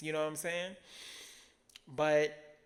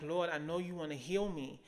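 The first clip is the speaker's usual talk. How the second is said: half-laughing plea to God, rising louder; chuckling at herself while praying; laughing prayer; 3 semitones higher, 8 dB louder than usual. Retold or imitated. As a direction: laugh through the confession. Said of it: "And I'm like".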